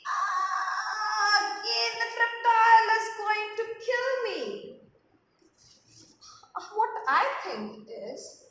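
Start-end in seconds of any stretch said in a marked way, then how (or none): 0.1-4.7 mock scream. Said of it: "Again she screamed".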